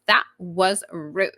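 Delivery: slow, laughing meme line; the catchphrase stuck in her head, said slowly; meme quote. Retold or imitated. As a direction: drag it out through a laugh. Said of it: "But I keep being like".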